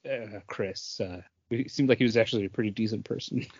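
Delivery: half-joking, holding back tears over a lost musician; quietly moved, rushing through it; choked up. Real, not acted. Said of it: "You can, you can let it out".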